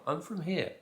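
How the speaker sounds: high-pitched insistence; acted-out repeated reply; mock exasperated protest.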